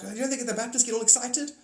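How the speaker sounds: imitating a churchgoer. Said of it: "She's like".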